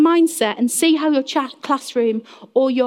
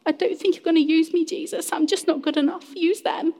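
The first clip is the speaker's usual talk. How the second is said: acted self-doubt; 5 semitones higher than usual. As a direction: play a meek believer doubting their worth. Acts a self-doubting believer talking to God.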